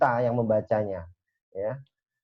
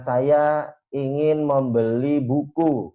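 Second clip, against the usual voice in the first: slow, carefully complete sentence; slow formal example; much slower than usual. Shown as a demonstration. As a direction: spell out each word of the formal version. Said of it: "biasanya itu kan terlalu lengkap gramatikalnya".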